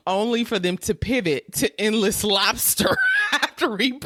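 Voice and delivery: reading with giggles breaking through; fighting back laughter while reading; laughing through reading. Real, not acted. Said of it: "try and get through this without laughing".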